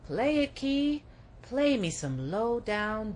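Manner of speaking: high, loud cry of pure joy; ecstatic cry. Acted. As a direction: call out to the piano player in ecstasy. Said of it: "someone cried out".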